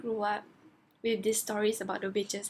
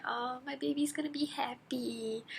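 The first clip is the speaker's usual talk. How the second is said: doting coo; 2 semitones higher, 4 dB quieter than usual. Retold or imitated. Fan delighted he found a new girl, doting. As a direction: gush tenderly over a darling.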